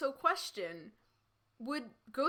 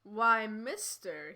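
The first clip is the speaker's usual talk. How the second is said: slow, drawn-out pout; 5 dB louder, much slower than usual. Acted. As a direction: plead innocence with a pout. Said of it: "he pouted".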